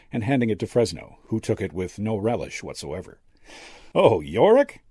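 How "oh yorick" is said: high, louder amused exclamation; a touch of a chuckle, swooping pitch; chuckling. A narrator's reading. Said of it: "the old medium chuckled".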